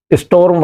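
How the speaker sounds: "storm" with o first, then r; correct pronunciation. Shown as a demonstration. Teacher spelling out the word for students, "storm" said correctly as is-TORM. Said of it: "एस टी ओ आर आता है पहले".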